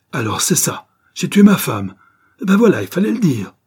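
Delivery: indignant sarcasm rising to a high yell. A narrator's reading. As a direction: yell a mock confession in outrage. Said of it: "hurle Bart". (hurlement indigné qui va crescendo)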